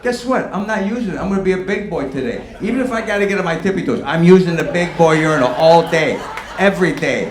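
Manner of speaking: loud, high, defiant bragging; defiant shout. Pretend. Man at the urinal loudly boasts to himself, defiant. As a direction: puff up and yell it with pride.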